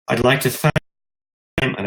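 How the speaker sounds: raspy from a cold; hoarse, cold-worn voice. Real, not acted. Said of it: "apologize for my raspy voice".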